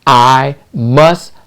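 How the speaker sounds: slow, word by word; measured dictation with a gap after each phrase; dictating an affirmation. Shown as a demonstration. Coach giving viewers words to write below the video, slow dictation. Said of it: "write these words".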